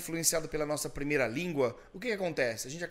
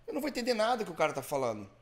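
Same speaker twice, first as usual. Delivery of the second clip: frustrated learner; 4 semitones higher than usual. Retold or imitated. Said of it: "aí você vai falar assim".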